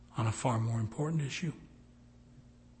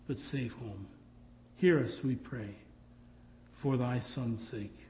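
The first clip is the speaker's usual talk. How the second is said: closing prayer. Real, not acted.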